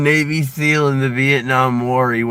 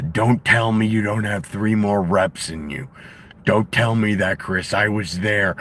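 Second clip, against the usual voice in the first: Karrion Kross's Jesse impression. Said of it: "does the".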